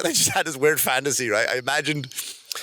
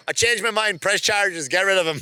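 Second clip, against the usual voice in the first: higher-pitched, abrupt change of heart; mock outraged reversal; 6 semitones higher than usual. Jilted mentor telling the court to press charges, mock outrage. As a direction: play a mildly indignant about-face.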